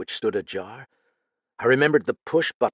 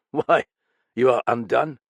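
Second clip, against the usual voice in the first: mocking laugh; 3 semitones higher, 7 dB louder than usual. Inspector laughs at his suspect.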